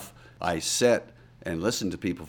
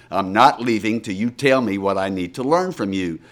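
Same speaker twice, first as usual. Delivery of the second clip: mock sulky Kentucky redneck, a bit louder; sulking redneck; 4 dB louder than usual. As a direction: play a stubborn sulking country boy, lightly. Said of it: "like I was a sulking redneck from rural Kentucky".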